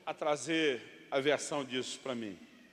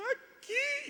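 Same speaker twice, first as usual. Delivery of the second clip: put-on very high, squeaky child's whine; hurt little boy. Son shows mother where it hurts, tiny high whine. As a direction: squeak it like a child showing a sore spot. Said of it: "Aonde machucou?".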